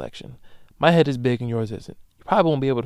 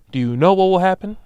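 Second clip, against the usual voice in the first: dramatic buildup; 6 semitones higher, 6 dB louder than usual. Real, not acted. Building up to the punchline.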